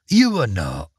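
lightly voiced Scottish trout, a high start then dropping; a small fish forced to tell the truth. Trout answers queen.

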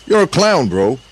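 high, loud scoff; scoffing insult. Acted. Tigress scoffs at Gorilla.

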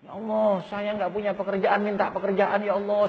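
high, sustained imitation of a weepy prayer; mock tearful pleading. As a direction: plead high, as if crying for work. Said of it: "sampai nangis-nangis itu". (menirukan ratapan doa sambil menangis)

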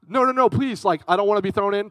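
high, loud begging; mock panicked pleading. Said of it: "I would be talking like".

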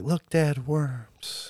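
put-on high, bright child's voice showing dad; a small kid tugging at dad, eager; excited little kid. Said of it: "He's like".

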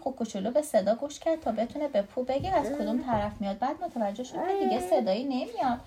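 lively read-aloud with swooping intonation; story reading to a child. A narrator's reading.

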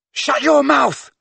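high, loud furious bellow. Acted. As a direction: bellow it with all your lungs. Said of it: "bellowed Ron".

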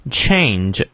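"Change" with the A glide fully sounded; full diphthong. Shown as a demonstration. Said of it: "双音念到位". (“Change”里的双元音念到位)

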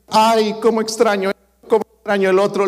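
a high, whiny mock lament; whiny complaining believer. Preacher to his church, mocking Christians who miss worldly things, high whiny moan.

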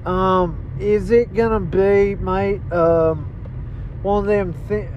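hesitant put-on Australian accent; lightly hammed Australian mate. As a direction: stumble along in a mock Australian accent. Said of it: "you didn't talk Australian".

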